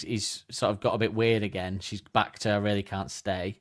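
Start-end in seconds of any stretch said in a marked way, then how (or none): 2.5-3.6 firm refusal. Pretend. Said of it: "now she's been firm".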